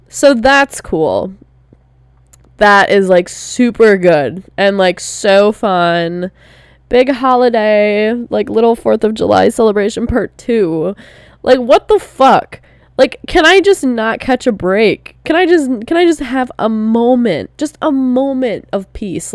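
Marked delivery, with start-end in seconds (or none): 0.1-10.0 dry sarcasm. Real, not acted. Sarcasm right after dad dying. 11.4-19.3 higher, pleading exasperation; exasperated venting. Real, not acted. Begging the universe for a break, higher and exasperated. Venting about bad luck.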